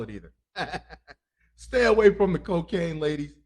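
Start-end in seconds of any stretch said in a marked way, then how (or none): 1.6-3.3 firm warning. Real, not acted. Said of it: "warning the ladies".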